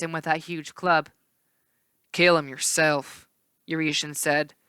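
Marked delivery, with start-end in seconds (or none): 2.1-3.3 grumbling herdsman. Acted. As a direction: refuse him with a grumble. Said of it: "Euretion grumbled".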